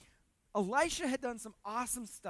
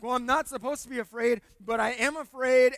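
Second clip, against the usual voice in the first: anxious inner voice; 11 dB louder than usual. Retold or imitated.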